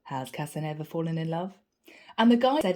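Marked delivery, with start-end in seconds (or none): 0.0-1.5 softer teasing repeat. Retold or imitated. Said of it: "smiled and said".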